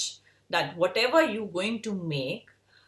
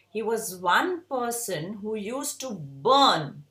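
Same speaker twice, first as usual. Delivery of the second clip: slow, leaning hard on the word burn; weighty slow line landing on burn; stress on burn; slower than usual. Shown as a demonstration. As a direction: drag out and punch burn. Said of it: "put an emphasis on the word burn".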